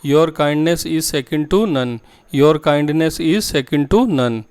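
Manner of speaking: very slow and clearly spaced, word by word; slow model sentence. Shown as a demonstration. Teacher to Hindi-speaking students, modelling the English sentence slowly. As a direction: spell the sentence out slowly for learners. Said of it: "next sentence बोलते हैं".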